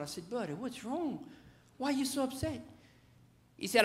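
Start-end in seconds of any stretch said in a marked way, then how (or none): 0.3-2.6 softer, higher coaxing questions; soft fatherly concern, acted out; concerned parent. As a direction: gently ask an upset child, voice lifted and soft. Dad soothing his mad little boy.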